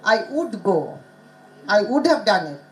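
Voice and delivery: "would" said as "ood", no W; dropped initial W. Retold or imitated. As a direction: leave the W off "would". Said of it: "They will total omit".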